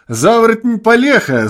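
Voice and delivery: high, loud jeering cry; sudden yell. A narrator's reading. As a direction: bawl it out at him. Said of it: "завопил вдруг обалдуй".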